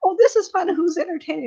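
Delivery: high, loud, hammed-up party cheer; mock cheerful. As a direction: sing out like the life of the party.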